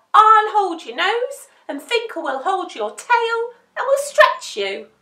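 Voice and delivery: high, loud jokey puppy voice; bouncy, excitable pup; playful puppy, eager. A narrator's reading. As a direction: pitch a silly plan with gusto. Joker's silly plan.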